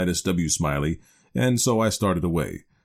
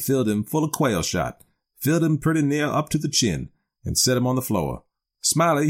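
lightly voiced country yarn-spinner in dialect; a touch of backwoods storyteller, rambling on earnestly; Simon Wheeler; 2 semitones higher than usual. Old acquaintance telling a stranger about Smiley's frog, lightly voiced rustic yarn.

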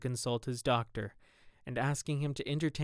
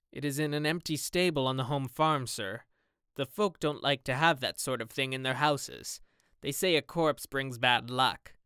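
gamekeeper voice. Acted. Gamekeeper explains where body lies.

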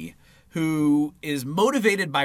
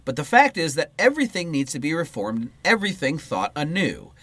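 measured read-aloud voice; book reading. Acted. Co-host reading political book to partner, read-aloud style. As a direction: read the political text out in full phrases.

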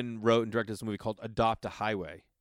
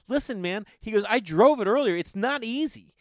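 higher and louder retold warning; stern warning; 11 semitones higher, 7 dB louder than usual. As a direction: warn him firmly, voice raised. First AD warning him about limo.

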